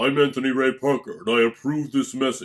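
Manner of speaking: deep, authoritative announcer voice. Mocking an actor's voice in presidential speeches, deep commanding Anthony Ray Parker voice. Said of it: "deep, dark, and just commanding voice".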